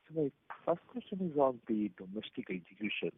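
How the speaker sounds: very faint, far from the phone; speaking too far from the mic; barely audible. Real, not acted. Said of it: "Your voice is very low".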